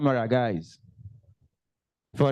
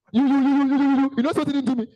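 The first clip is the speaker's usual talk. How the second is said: stammering anger; 11 semitones higher, much faster than usual. Retold or imitated. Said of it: "So you're angry".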